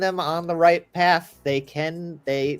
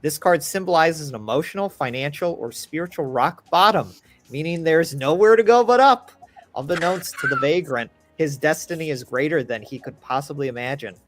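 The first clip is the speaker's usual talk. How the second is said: solemn card reading narration; dramatic narration. Acted. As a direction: read it like a grim fortune.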